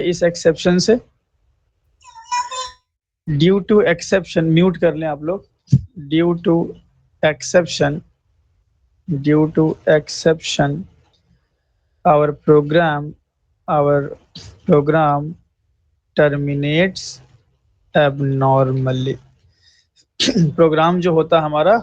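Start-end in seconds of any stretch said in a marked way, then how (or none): 3.3-4.5 slow dictation. Shown as a demonstration. Teacher dictates definition slowly. 6.1-19.2 very slow, word by word, for students to write down; spaced-out dictation pace. Shown as a demonstration. Dictates definition for notes.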